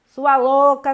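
loud sharp insult. Shown as a demonstration. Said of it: "você falo". (insulto dito bem alto)

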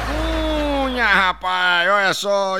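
high drawn-out opening call; signature call. Acted. Comedian opening a joke with his catchphrase, high and drawn out. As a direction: belt out the show's catchphrase.

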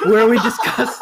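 high squeaky voice crack. Acted. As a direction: pitch jumps up suddenly. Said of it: "Oh my gosh, that was like a".

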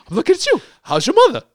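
high, hammed-up London accent; badly faked London tough guy; Jason Statham. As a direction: taunt in a mock London voice. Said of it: "This is my London accent".

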